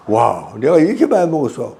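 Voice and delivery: mock astonished "wow" reaction; surprised. Islander seeing secretly filmed meal, lightly acted surprise. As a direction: imitate someone amazed at themselves, understated. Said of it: "깜짝 놀라는".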